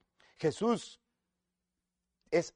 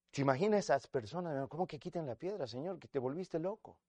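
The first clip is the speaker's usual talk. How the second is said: baffled onlookers; 11 dB quieter than usual. Acted.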